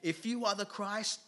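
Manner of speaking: high, shouted jeer that climbs to the end; hammed-up mocking yell, slow and stretched; blaspheming taunt. Crucified criminal shouting at Jesus to save them, mocking. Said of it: "blasphemed him".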